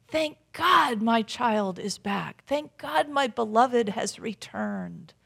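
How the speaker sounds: slow, heartfelt thanksgiving; grateful welcome. Retold or imitated. God welcoming a beloved child back, grateful and slow. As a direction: savour each word in relief, slowly.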